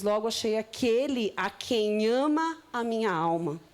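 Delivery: slow, solemn Bible reading; scripture reading. Acted. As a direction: read it unhurried, like a sacred text. Reads another Bible version. (leitura bíblica lenta e solene)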